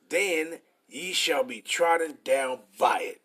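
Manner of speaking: slow, measured Bible reading; preacher reading the verse slowly; scripture reading. Acted. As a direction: read the verse out with weight. Reads scripture aloud.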